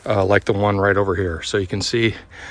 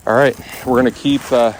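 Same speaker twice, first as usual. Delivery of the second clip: usual speaking voice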